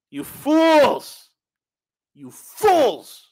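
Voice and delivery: high, loud furious yell; angry shout. Real, not acted. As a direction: yell at the fools. Yelling at the vaccinated.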